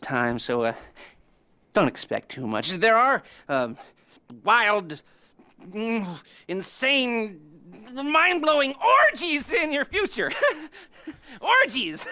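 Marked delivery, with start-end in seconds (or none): 4.4-12.1 high, laughing, over the top; giggling glee. Acted. Lester promises orgies, high and giggling.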